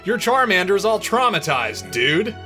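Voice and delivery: high, loud dramatic exclamation; alarmed Brock. A narrator's reading. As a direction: blurt it out in hammed-up alarm.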